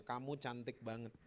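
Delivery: quiet fatherly reassurance; tender father. Retold or imitated. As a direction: say it gently and low, like a loving dad. Father tenderly telling baby she's pretty.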